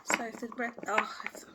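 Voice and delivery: stumbling start, breaking off mid-word; tongue-tied. Real, not acted. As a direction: trip over the words and restart. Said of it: "I'm really tongue-tied".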